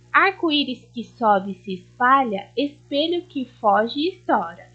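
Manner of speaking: put-on lilting read-aloud for young children; a touch of storybook reading; reading a poem aloud. A narrator's reading. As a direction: read it like a gentle rhyme to the class. Teacher reads poem to class.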